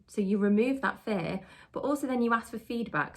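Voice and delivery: ordinary delivery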